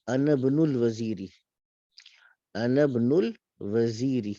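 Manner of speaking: انا ابن الوزیری read slowly with the نون linked to ب; joined reading. Shown as a demonstration. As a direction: link انا into ابن smoothly. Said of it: "نون کو با کے ساتھ ملائیں گے". (انا ابن الوزیری ملا کر)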